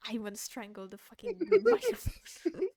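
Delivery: loud, high, laughing through it; laughing frustration. Real, not acted. Streamer laughing at own frustration, loud and high. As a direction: blow up with a laugh. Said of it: "I need to calm down".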